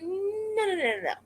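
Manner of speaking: rattled-off string of no's starting high; hammed-up veto; retold firm refusal.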